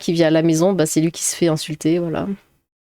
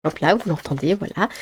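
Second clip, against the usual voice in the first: ASMR; 2 semitones lower, 4 dB quieter than usual. Pretend. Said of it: "je vous fais un petit peu d'A S M R".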